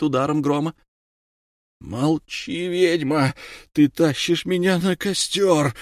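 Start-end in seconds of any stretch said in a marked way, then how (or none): 1.8-5.7 angry snarled accusation; growling. A narrator's reading. Damon on trial snarls at the witch, angry. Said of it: "рычал Иос Дамон".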